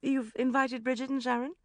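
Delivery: high, loud rising disbelief; can't believe the guests invited; shocked question. A narrator's reading. Rebecca shocked.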